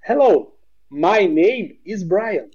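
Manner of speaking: slow, over-careful textbook English; stiff textbook English. Shown as a demonstration. Brazilian mocking a stiff tourist, slow, textbook English. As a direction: spell it out like a language tape. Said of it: "Você chega pra alguém e fala assim".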